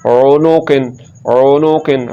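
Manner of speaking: ओनोकिन with नो unstretched; short vowel. Shown as a demonstration. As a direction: keep नो brief in ओनोकिन. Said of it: "पेश को लंबा नहीं करना".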